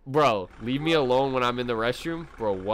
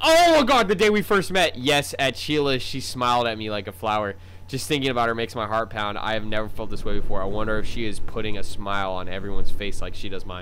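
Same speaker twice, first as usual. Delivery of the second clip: lovestruck inner voice; 6 dB louder than usual. Acted. Gamer voicing his character's crush. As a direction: swoon over the girl from Sheila's. Game character's dreamy monologue.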